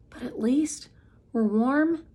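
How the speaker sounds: unvoiced hush; whisper. A narrator's reading. Girl whispering so her sleeping family won't wake. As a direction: breathe it without voice. Hushed thought at night.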